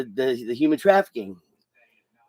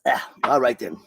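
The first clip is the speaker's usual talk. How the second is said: whispering; 4 semitones lower than usual. Real, not acted. Whispers after sneaking a drink.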